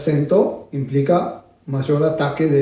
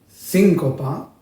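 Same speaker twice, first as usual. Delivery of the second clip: síncopa with the first syllable SÍN hit, said slowly; stress on the I; much slower than usual. Shown as a demonstration. Teacher showing students the accent on SÍN, slowly. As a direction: lean on SÍN and let copa follow. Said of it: "que tiene un acento sobre la I".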